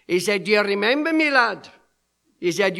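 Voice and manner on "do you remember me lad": imitated Scotsman, pitched a little up; Scottish accent. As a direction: put on a mild Scottish accent. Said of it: "with his Scottish accent".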